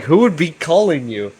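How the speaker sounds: a mild mock sneer at the lonely guy; mocking jab. Habit teasing Vinny about a phone call, lightly mocking. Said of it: "He's like".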